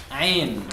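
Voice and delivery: Ain squeezed from deep in the throat; throaty Ain. Shown as a demonstration.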